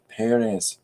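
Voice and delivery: "Perez" stressed PEH-rez; stress on first syllable. Shown as a demonstration. Streamer confirming for chat, "Perez" stressed on the first syllable. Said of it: "the stress is on the first E".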